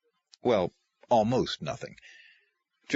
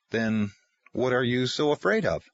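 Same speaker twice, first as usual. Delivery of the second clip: calm; 2 semitones higher than usual. Acted. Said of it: "Tom replied calmly".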